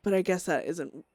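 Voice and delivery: grim, brooding inner monologue; dramatic journal reading. Acted. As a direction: read it like a haunted diary entry.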